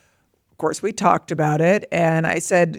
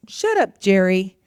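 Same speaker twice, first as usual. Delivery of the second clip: dismissive retort. Retold or imitated. Mother quotes daughter answering her inner critic, mild retort. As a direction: imitate a kid brushing off a critic. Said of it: "and she goes, "I'd say, like".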